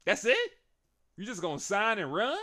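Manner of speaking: hammed-up taunt; mock indignant Roman. Roman to Seth, mocking and loudly indignant. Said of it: "And Roman said".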